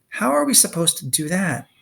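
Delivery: trembling voice. Acted. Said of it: "Her voice trembled".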